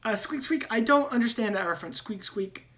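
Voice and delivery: high, squeaky rat voice with squeaks; squeaky rat man. Acted. GM voicing Ratrick.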